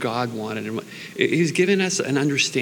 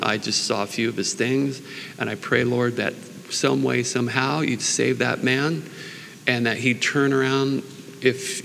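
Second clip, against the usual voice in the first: earnest prayer; spoken prayer. Acted. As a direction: pray sincerely to the Lord. Prays for Chris Angel.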